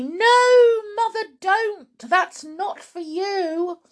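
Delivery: high, urgent pleading; loud at first, slowing into a plea; alarmed cry. Acted. Daughter begs Grandma not to drink it, frantic. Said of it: "cried Missus Cranky".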